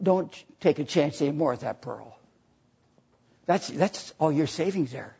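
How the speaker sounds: gently begging him to stop risking it; little old lady. Acted.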